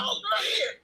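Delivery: high laughing call; laughing shout. Retold or imitated. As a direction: toss it over, laughing. Workers tossing paper, laughing.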